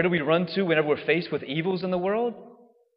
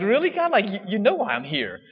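high, louder mock exasperation; mock indignant complaint to God; exasperated; 8 semitones higher, 4 dB louder than usual. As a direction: roll your eyes at God, pitched up. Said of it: "you're like".

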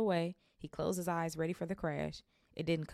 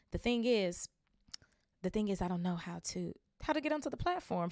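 rising higher, hesitant; nervous Harry; 3 semitones higher than usual. Acted. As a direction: stumble through the question.

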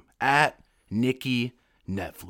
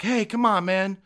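high, louder, urgent pleading; pleading battle buddy; 11 semitones higher, 5 dB louder than usual. Retold or imitated. Battle buddy begging the recruit to stop, high and pleading. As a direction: beg him to back down. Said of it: "he's like".

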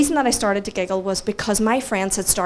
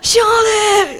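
high-pitched, loud mock English shout; terrible English accent; 13 semitones higher, 6 dB louder than usual. The speaker calling his friend over, badly faked English accent. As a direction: shout it across a room in bad English accent. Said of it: "A terrible accent".

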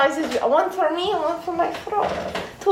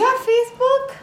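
laughing shout; 7 semitones higher than usual. Real, not acted. Joking anachronism to NPC.

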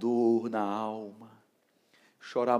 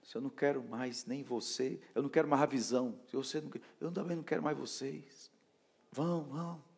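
lightly voiced dismissive pastor, slightly raised pitch; rejecting pastor; 3 semitones higher, 4 dB quieter than usual. Ex-pastor sending his disciples away, lightly acted rejection. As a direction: act out a mild rejection. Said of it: "tinha me rejeitado".

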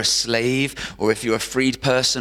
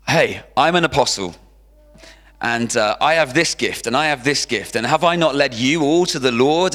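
mock rant, louder and raised; Paul ranting to the Corinthians, louder; 4 semitones higher, 4 dB louder than usual. Paul the apostle defending himself to the church, a ranting plea. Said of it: "has this whole rant".

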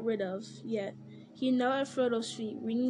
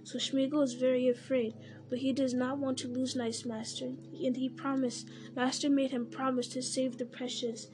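Gollum wheedling; 2 semitones higher than usual. Acted. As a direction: wheedle and reassure, anxious.

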